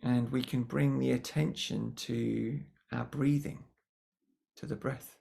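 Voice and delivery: calm, unhurried guiding voice with long pauses; guided meditation. Acted. Meditation teacher guiding attention to the breath, calm guiding voice. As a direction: gently lead the listeners inwards, pausing between phrases.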